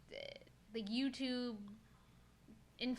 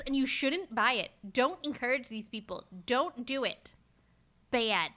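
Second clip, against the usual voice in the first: firm, louder telling-off; mock scolding; 4 dB louder than usual. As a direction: scold them like a naughty pet. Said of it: "Stop yelling at me".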